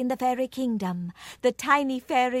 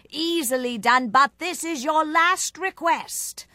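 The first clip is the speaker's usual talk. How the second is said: loud, raised royal warning; stern fairy king; 6 semitones higher, 5 dB louder than usual. A narrator's reading. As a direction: lay down the limit loudly. King sets a limit.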